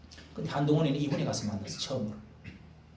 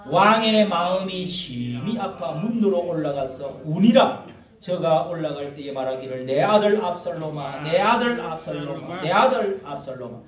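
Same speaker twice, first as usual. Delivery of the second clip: scripture reading; 2 semitones higher, 6 dB louder than usual. Acted. Preacher reading David's grief aloud to the congregation, solemn. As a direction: read the verse out like a lament.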